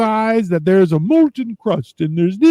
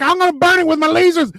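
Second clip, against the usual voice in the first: mock menace; 11 semitones higher, faster than usual. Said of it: "He's like".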